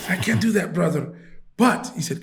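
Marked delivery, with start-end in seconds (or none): 0.1-1.1 lightly imitated Saudi accent; horrible Saudi accent. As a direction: put on a rough Saudi accent. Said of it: "doing my horrible accent".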